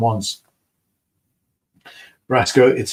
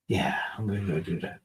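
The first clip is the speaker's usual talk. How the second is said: hushed whisper to himself; 3 semitones lower, 8 dB quieter than usual. Real, not acted. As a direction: breathe it out, no voice. Aside to himself.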